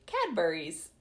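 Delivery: real laugh breaking into the word; amused. Real, not acted. Reader tickled by Cadburys in a magical court, amused. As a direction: say it as laughter takes over.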